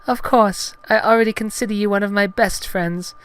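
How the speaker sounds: high falsetto heroine, pleased; Padme, smiling. Acted. Heroine calls Gungan a best friend, high smiling falsetto. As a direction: reassure him in smiling falsetto. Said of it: "Padme smiled brightly at him".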